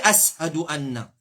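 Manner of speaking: "ashadu" with a plain s instead of sh; mispronounced ashadu. Shown as a demonstration. Teacher rejecting a faulty call, mispronounced "ashadu". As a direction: say "ashadu" wrongly as s-hadu. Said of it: "Pas dire, c'est".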